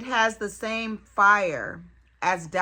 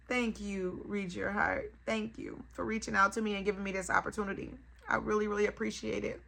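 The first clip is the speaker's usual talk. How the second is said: softer, heartfelt gratitude; sincere thanks; 6 dB quieter, faster than usual. Real, not acted. Vlogger thanking the jewelry brand, soft and sincere. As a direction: thank them gently, from the heart.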